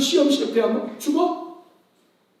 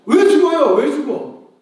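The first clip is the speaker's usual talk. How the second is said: louder, higher indignant question; indignant cry; 4 semitones higher, 4 dB louder than usual. Real, not acted. Preacher scolding the congregation, indignant raised cry. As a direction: demand it in outrage. Preacher rails against suicide.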